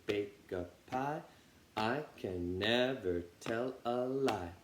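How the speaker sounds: slow, unhurried turtle chant. Shown as a demonstration. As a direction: plod through the rhyme slowly. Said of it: "the turtle".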